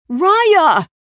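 loud, high cry of a name; alarmed cry. A narrator's reading. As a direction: cry out to a friend who has fallen. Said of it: "Clayton cried".

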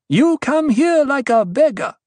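high, loud scorn; fierce rebuke. A narrator's reading. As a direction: denounce him from on high. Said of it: "She's in a fierce mood tonight".

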